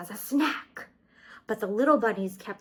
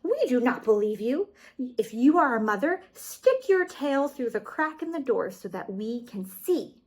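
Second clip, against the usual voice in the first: calling through door; 4 semitones higher, 6 dB louder than usual. Acted. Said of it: "called through the door to the wolf".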